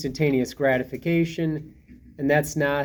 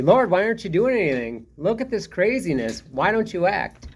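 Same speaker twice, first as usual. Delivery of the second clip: pleading with God; 5 semitones higher than usual. Retold or imitated. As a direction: cry out to God like a frustrated believer. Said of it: "and we say".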